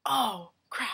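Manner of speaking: loud, hammed-up customer lament; exaggerated wail of the upset customer; mock wail. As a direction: cry out in pretend dismay. Acting out the upset customer's excuse.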